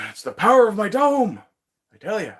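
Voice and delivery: high, loud playful proclamation; mock-heroic shout. Streamer boasting to viewers about the dome, mock-heroic shout.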